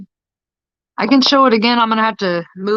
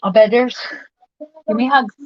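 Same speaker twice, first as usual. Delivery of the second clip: coaxing, higher mommy voice; 4 semitones higher than usual. Real, not acted. Bedtime talk with toddler.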